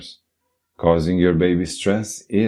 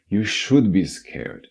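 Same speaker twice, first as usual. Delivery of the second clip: ominous warning; 3 semitones higher, slower than usual. Pretend. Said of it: "screaming at them about how".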